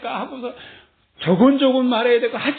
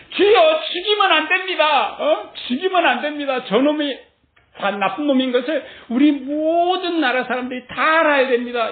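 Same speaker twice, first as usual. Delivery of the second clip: higher and louder urgent plea; pleading prayer; 3 semitones higher, 3 dB louder than usual. Retold or imitated. David begging God for mercy, higher and louder. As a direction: beg God not to kill.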